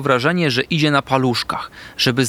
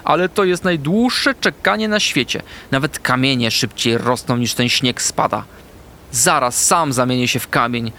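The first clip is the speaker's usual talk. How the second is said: mock despair. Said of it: "pisnął chomik z rozpaczą".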